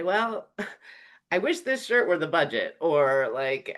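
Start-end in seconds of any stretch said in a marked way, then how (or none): 0.0-2.8 laughing quip. Pretend. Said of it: "you spill coffee on yourself and you say".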